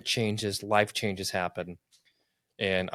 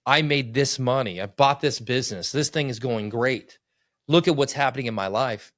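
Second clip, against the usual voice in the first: louder, boastful self-praise; mock bragging; 3 semitones higher, 5 dB louder than usual. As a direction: puff yourself up, mock-proud. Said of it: "I'm braggadocious".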